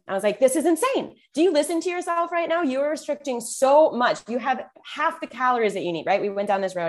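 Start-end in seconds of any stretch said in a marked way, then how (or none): 0.4-6.1 high, raised scolding yell at a friend; retold yell. Coach yelling at her client about restricting calories, high exasperated yell. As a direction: yell at her like she's lost her mind. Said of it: "I yelled at her".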